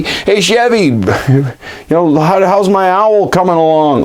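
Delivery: a high, eager Ron; voicing Ron. Ron asks Chevy about his owl, high and eager.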